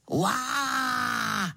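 hlasitý zvířecí řev; zařvi jako velká šelma; řev levharta. Acted. Levhart řve pod oknem. (zvířecí řev)

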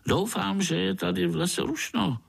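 high, quick grinning mosquito; jolly mosquito grinning at a spider. Acted. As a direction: tease the little spider, fast and high.

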